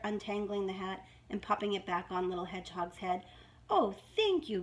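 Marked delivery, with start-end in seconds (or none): 3.7-4.6 high, grateful hedgehog; beaming storybook gratitude. A narrator's reading. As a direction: say thanks with a big smile. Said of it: "beamed little hedgehog".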